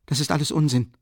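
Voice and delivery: annoyed outburst. A narrator's reading. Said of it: "rief Raskolnikow ärgerlich".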